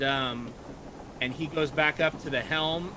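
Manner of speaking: usual speaking voice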